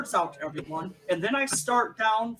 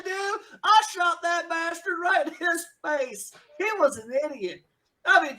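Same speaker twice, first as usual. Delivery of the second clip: high, laughing hick brag, pitched way up; boasting outlaw; 8 semitones higher, 4 dB louder than usual. Acted. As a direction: crow about the killing with a cackle. GM voices Franklin boasting, laughing.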